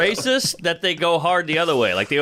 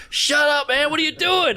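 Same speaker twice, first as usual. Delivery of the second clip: pitched up in mock disbelief; pitched-up reenactment of protesting in shock; retold incredulous protest; 10 semitones higher than usual. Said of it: "And I was like".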